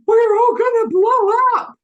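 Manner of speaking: a terrified scream about blowing up; panicked anxious. Shown as a demonstration. Soldier panicking that the atomic fuel will explode, shrieking. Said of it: "If it was anxious".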